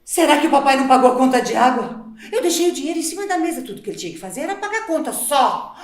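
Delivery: fast, loud irritated muttering; exasperated grumble. Acted. Mother blaming husband for unpaid water bill, fast exasperation. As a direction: rattle off the complaint about her husband.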